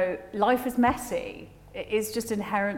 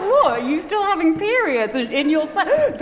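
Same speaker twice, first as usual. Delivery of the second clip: high, loud, incredulous yelp; shocked disbelief; 9 semitones higher, 6 dB louder than usual. Retold or imitated. Daughter on the phone to mum, high shocked disbelief.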